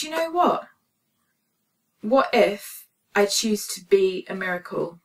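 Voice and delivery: like a lightbulb turning on; sudden resolve. Retold or imitated. Sudden decisive thought.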